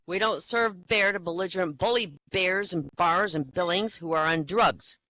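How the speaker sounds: loud firm refusal. Acted. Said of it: "The bartender says".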